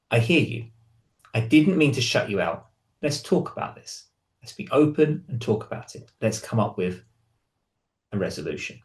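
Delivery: calm, softening toward a near-whisper at the end; calm reply. Retold or imitated. Partner B answering a hurt partner, calm reassurance. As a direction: partner B soothing an upset partner, calm and gentle. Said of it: "It's about the calmness in how you respond".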